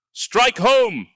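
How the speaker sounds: high, loud battle scream; screamed order. Acted. Wizard screams at his army, high battle scream. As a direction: scream the command at the troops. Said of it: "he screamed".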